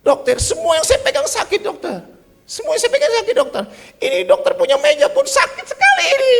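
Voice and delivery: very high, loud panicky half-sobbing shout; panicked wail. Retold or imitated. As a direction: wail that everything hurts. Pak Cek wails in panic. (Pak Cek meratap panik dengan teriakan tinggi)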